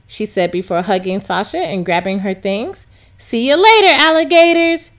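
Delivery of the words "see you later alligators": yelled. Acted. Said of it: "she yelled".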